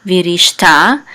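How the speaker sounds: accent the closing ta; stress on last syllable. Shown as a demonstration. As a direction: land on the final ta of virishta. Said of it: "So the accent is on".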